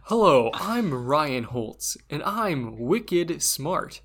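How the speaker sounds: slow Boston radio intro; mock Boston public-radio voice; Boston announcer.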